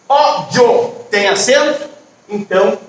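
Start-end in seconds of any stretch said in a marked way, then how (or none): 0.1-1.0 ÓDIO in two beats, ó-dio, ending glided together; joined diphthong. Shown as a demonstration. Teacher showing an accented word, ódio with joined ending. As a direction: stress the Ó of ódio and keep dio as one syllable. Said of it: "fica junto".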